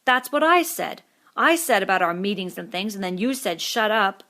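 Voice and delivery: Piggy bursting out in protest; indignant boy finally speaking up; daring, indignant. A narrator's reading. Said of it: "Daring, indignant".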